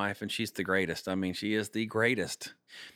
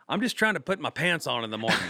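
laughing through the comeback; laughing retort; 5 semitones higher, 3 dB louder than usual. Retold or imitated. To the interviewer, a laughing comeback about pants. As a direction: chuckle as you say it. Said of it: "And I go".

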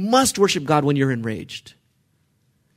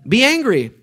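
emphatic answer; 7 semitones higher, 6 dB louder than usual. Real, not acted. Answering his own question.

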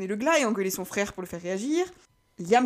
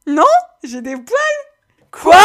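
voix de personnage; 8 semitones higher, 16 dB louder, much slower than usual. Acted. Réplique de personnage, voix aiguë.

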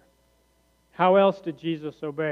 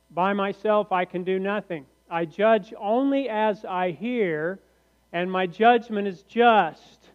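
scripture reading; 3 semitones higher, 4 dB louder than usual. Acted.

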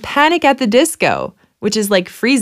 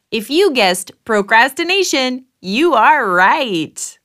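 game show host. Acted.

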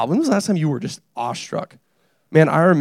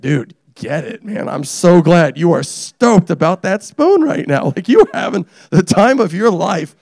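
mock cheering; 3 semitones higher, 5 dB louder, slower than usual. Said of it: "And I'm like".

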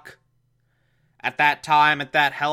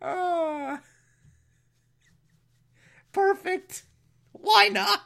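put-on squealing baby talk aunt; much slower than usual.

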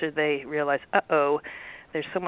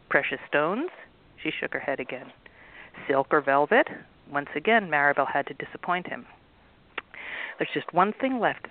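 steady storybook reading voice; story narration. A narrator's reading. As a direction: read the chapter like a bedtime story. Author reads book aloud.

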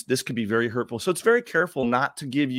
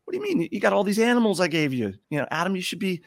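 high-pitched incredulous protest, acted out; mock exasperation, pitched well up; indignant God; 8 semitones higher, faster than usual. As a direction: play God baffled by an ungrateful creation. God protests in told joke.

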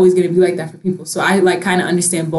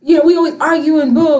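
emotional outburst; 8 semitones higher than usual. Retold or imitated. Teen complaining to family about no affection, emotional. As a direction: plead with the family, all worked up. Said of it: "I used to get emotional".

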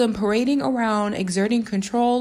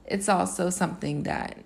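hushed, softer playful confiding; mock-secretive whisper; 3 semitones lower, 5 dB quieter than usual. Jokingly confiding a secret crush.

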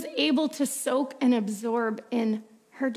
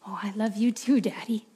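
put-on little girl's voice. Little girl answers father.

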